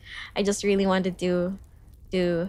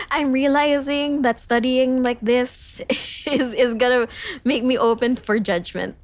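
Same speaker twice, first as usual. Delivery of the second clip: self-conscious laughing; 4 semitones higher, 4 dB louder than usual. Real, not acted. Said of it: "I'm so conscious".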